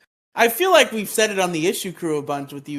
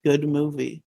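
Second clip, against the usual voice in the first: silly catchphrase. Acted. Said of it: "I'm making a reference".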